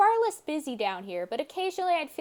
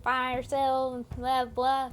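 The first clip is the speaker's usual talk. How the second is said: mild Southern drawl on the elf's line; slow, lightly Southern elf voice; Southern accent; slower than usual. Acted. Player redoes the elf in a Southern accent. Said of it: "I should have done the southern accent again".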